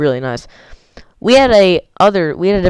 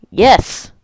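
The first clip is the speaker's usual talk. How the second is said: mild imitation of a yell, pitched higher; quick higher-pitched exclamation, not full volume; retold yell; 5 semitones higher, 3 dB louder than usual. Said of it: "He yelled something like".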